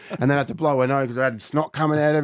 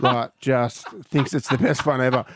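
laughing; 2 semitones lower than usual. Real, not acted. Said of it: "laugh heard".

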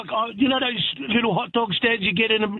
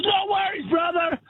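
higher-pitched mock vendor call; imitated street vendor; 5 semitones higher than usual. American vendor taking Joe's order, imitated hearty call. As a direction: play the obliging hot dog seller.

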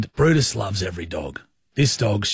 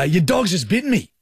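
cranky; 6 semitones higher than usual. Retold or imitated. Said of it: "I'm cranky".

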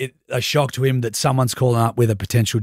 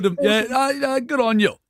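higher-pitched Aussie bush accent; 9 semitones higher than usual. Shown as a demonstration. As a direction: try out a put-on bush farmer accent. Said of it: "A bit more bush".

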